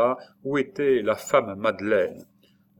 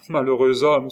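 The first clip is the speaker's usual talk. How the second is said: loud, raised exclamation; alarmed cry; 4 semitones higher, 8 dB louder than usual. A narrator's reading. Nurse crying out at his danger, loud alarm. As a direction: cry out the warning urgently. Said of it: "s'écria-t-elle".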